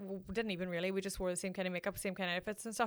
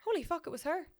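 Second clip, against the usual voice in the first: a hushed, higher gasp of disbelief; shocked whisper; 7 semitones higher than usual. Retold or imitated. Recognising the lookalike girl being carried out, stunned whisper. Shocked realisation told to friends.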